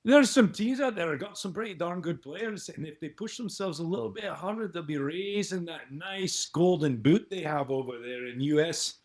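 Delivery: hammy Scottish pundit rambling about trophies; Ian McGregor. Pretend. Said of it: "his name is Ian McGregor".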